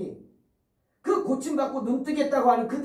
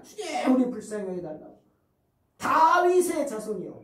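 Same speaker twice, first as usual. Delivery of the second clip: raised pleading cry; 2 semitones higher than usual. Acted. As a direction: call out to the Lord over the crowd. Blind men crying out again. (더 크게 부르짖는 외침)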